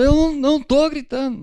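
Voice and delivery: very high, loud yelled denial; mock shouting denial. Spouse denying yelling in a mock argument, shouting high. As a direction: scream that you're not screaming. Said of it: "Quem nunca ouviu alguém gritar assim".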